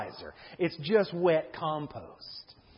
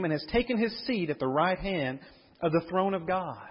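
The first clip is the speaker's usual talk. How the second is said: scripture reading; 2 semitones higher than usual. Acted. Reads scripture aloud.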